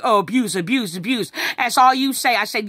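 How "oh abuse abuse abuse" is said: imitated taunt, lightly chanted; mocking imitation. Son throws her complaint back at her, mocking. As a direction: mimic him mocking, in singsong repeats. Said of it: "He's mocking me".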